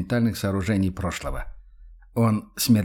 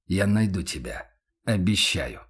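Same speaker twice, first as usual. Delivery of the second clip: tender promise; 3 semitones lower than usual. Acted. Max promises to find weeping Yana, tenderly. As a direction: promise it gently and earnestly. Макс утешает Яну обещанием.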